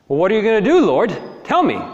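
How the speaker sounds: loud, high, eager prophet; eager questioning. Acted. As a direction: press God for the answer.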